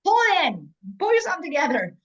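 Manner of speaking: loud, high, ringing no no no; forceful calls, each no punched; emphatic no. Real, not acted. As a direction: shut the idea down hard and loud. Rejecting the ideas, calling out.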